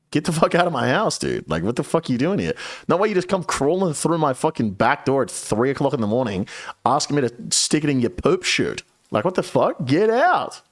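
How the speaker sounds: fast, high mock rant telling him to get out; tearing into the intruder with rising pitch; angry outburst. To Steve in the bedroom at night, a hammed-up angry rant.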